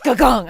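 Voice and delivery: mock "gagong" hit sound; imitated double slap. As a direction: mimic two quick smacks. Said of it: "And he went".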